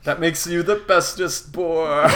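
slow, lightly cooing pet talk; a hint of baby talk to a dog; puppy dog talk. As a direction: coo at him like a puppy. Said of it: "descending into, like, puppy dog talk".

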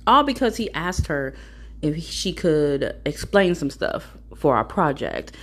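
usual speaking voice

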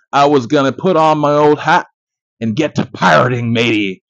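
lightly put-on pirate accent. Host joking to viewers about pirating a film, mild pirate accent. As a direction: have a half-hearted go at pirate talk. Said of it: "stop with this accent shit".

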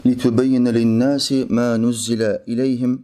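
rapid, chanted Arabic recitation; Quran recitation. Acted. Imam reciting the verse to listeners, rapid recitation. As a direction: recite the verse in one flowing breath.

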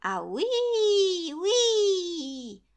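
high, loud wind howl. Acted. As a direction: make the wind wail through the crack. Wind howling in the story.

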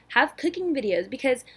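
breathless, running out of air; out of breath. Real, not acted. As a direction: talk on the last of the breath. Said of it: "I need to get my breath".

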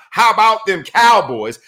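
drawn-out smug fan taunt; obnoxious fan voice. Retold or imitated. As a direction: sneer it like the most obnoxious fan. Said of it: "in your most obnoxious voice imaginable to mankind".

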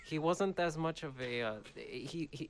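put-on half-hearted joking Russian accent; mock Russian accent. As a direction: play at a Russian accent with a laugh in it. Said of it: "do it in your Russian accent".

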